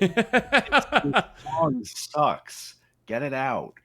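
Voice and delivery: high, slow laughing voice; laughing mock executive. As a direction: squeal it out through a laugh.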